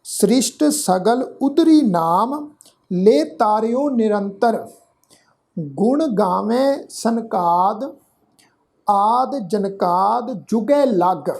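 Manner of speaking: slow, measured Gurbani reading; scripture recitation. Shown as a demonstration. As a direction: recite in short phrases with drawn-out vowels. Teacher recites scripture for learners.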